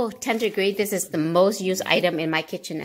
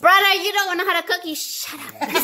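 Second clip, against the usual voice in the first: laughing; 7 semitones higher than usual. Real, not acted. Teasing brother, laughing.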